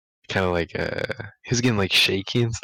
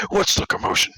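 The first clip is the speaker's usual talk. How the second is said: high, breathy teacher query; 11 semitones higher than usual. Retold or imitated. Mister Cali arriving at the scene, high puzzled query.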